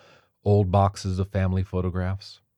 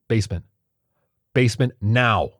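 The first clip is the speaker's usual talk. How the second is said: louder, urgent order; urgent command; 4 semitones higher, 6 dB louder than usual. A narrator's reading. Martha ordering the group into the basement, urgent. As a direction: get them moving now. Martha urging everyone downstairs.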